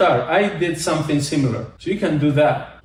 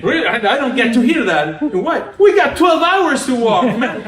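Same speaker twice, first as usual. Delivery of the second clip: laughing retelling; 7 semitones higher, 4 dB louder than usual. Retold or imitated. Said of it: "He's like".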